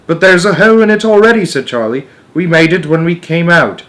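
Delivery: high, loud urgent shout. A narrator's reading. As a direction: push it out fast over noise. Charlie shouting.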